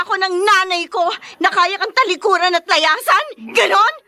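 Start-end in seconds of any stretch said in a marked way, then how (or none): 3.5-3.9 crying. Acted. Daughter breaks down in quarrel.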